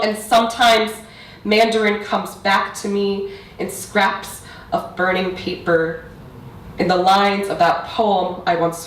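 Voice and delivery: building, emphatic poetry recital; spoken-word poetry. Acted. Poet reciting to parents and audience about mother tongue, spoken-word delivery. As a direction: press through the lines, then pause for weight.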